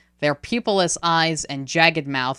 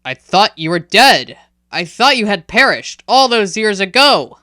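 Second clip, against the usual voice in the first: shocked; 5 semitones higher, 9 dB louder than usual. Acted. Shocked Hyaktu confronts the spirit.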